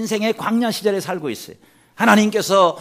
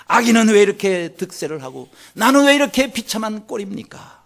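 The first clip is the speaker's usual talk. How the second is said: raised, pleading protest to God, louder and higher; anguished complaint; 5 semitones higher, 3 dB louder than usual. Retold or imitated. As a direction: cry out to God in bitter complaint. 엘리야의 하나님께 원망 기도. (하나님께 울부짖는 엘리야의 원망)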